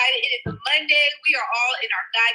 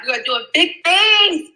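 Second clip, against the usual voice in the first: excited; 3 semitones higher, 5 dB louder than usual. Real, not acted. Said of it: "I'm so excited".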